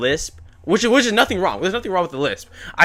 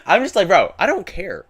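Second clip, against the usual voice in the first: laughing through the words; can't hold back a laugh; real laugh while retelling; 7 semitones higher, 7 dB louder than usual. Real, not acted.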